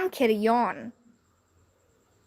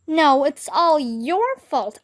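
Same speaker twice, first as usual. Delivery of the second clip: put-on slow, girlish retort; lightly voiced Andrea; girl blaming back; 3 semitones higher, slower than usual. A narrator's reading. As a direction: throw it back at him.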